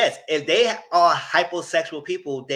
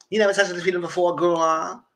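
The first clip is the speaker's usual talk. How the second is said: teasing laugh; 3 semitones higher, 3 dB louder than usual. Retold or imitated. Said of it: "you just so freaking shocked and embarrassed".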